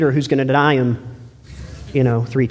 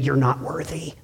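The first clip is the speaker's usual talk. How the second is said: satanic whisper; 2 semitones lower, 6 dB quieter than usual. Retold or imitated. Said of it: "Satan whispering in your mind saying".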